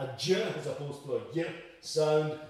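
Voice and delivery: j voiced as juh, y as yuh; j against y. Shown as a demonstration. Explaining anglicization, j as juh contrasted with y as yuh. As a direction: sound out j and y alone, juh then yuh. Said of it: "as it does with anglicization".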